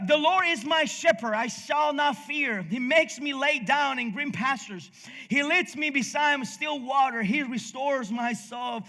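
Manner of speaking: scripture recitation. Acted. Preacher reading the psalm to the congregation, solemn recitation. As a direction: lift the words up like a prayer read aloud.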